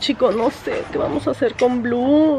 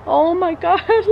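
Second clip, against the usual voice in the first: imitating niece; 7 semitones higher, much slower than usual. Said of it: "le hace".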